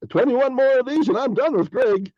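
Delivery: 2 high mock-cheery aside; 4 a hint of a bored Facebook friend. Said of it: "like Facebook friends".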